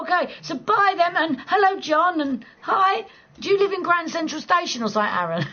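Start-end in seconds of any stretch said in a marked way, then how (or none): 0.0-3.0 lilting welcome; sing-song greeting. Real, not acted. Greeting people arriving on stream.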